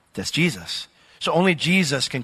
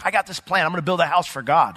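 mildly excited; 2 semitones higher than usual. Retold or imitated. David tells the prophet Nathan his plan, mildly excited. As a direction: share a plan with mild excitement. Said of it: "he was all excited".

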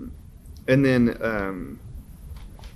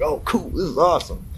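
higher-pitched, lightly thrilled self-quote; mild retold excitement; 6 semitones higher than usual. Musician retells seeing the notification, mildly excited. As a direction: act out being pleasantly impressed. Retelling own happy first reaction.

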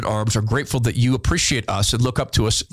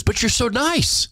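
higher and slow, drawn-out disbelief; mock amazement; 9 semitones higher, slower than usual. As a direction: marvel at it, slowly and high. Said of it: "She goes".

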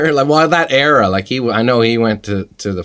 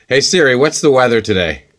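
talking to voice assistant; 4 semitones higher, 3 dB louder than usual. Acted. Commanding phone assistant.

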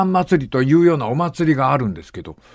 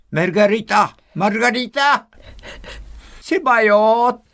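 mock medium voice; 8 semitones higher than usual. Medium voicing the dead father.

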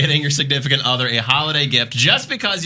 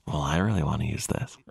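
low put-on auctioneer voice; lightly voiced auctioneer; 9 semitones lower than usual. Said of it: "Why are you doing the auctioneer voice?".

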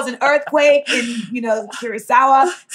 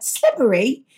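"slippery" in put-on Cockney, lifting at the end; over-done British "slippery", Cockney style; sweet Cockney.

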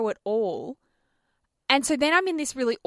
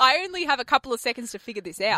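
panicked thought; faster than usual. Retold or imitated. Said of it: "You're like".

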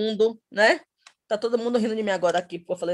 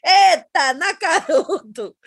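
higher, louder Eita, then Nakaruto drawn out slowly; mock proud; 4 semitones higher, 4 dB louder, much slower than usual. Mother imitating herself proudly mispronouncing the name, hammed-up. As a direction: savor Nakaruto like you are nailing it.

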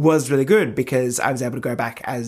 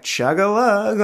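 high cheer; 9 semitones higher, slower than usual. Retold or imitated. Party guest cheering drinking.

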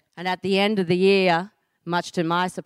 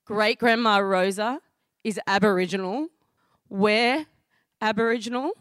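stunned realisation; 3 semitones higher than usual. Retold or imitated. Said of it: "I look at her in shock".

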